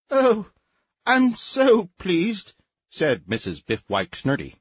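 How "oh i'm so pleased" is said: much higher, fluttery society matron; warbling high voice. Acted. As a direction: warble it an octave up. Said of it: "in a voice at least an octave above her natural range".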